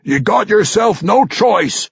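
slow, high-pitched forceful order; insist, stretching out the words; insistent. A narrator's reading. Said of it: "Ogden insisted".

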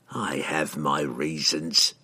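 low, soft and slow; quiet villain closing the subject; guarded assassin. A narrator's reading. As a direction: give nothing away, low and deliberate. Assassin guardedly rebuffs the wizard.

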